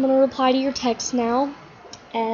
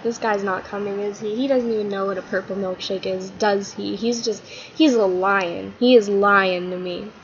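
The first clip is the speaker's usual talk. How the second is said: a little sad. Acted. Todd on the bench, realizing he was lied to, mildly sad. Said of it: "Todd's a little bit sad".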